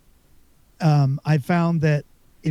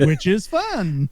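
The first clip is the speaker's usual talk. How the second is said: laughing; 3 semitones higher, slower than usual. Real, not acted. Joking about being broke.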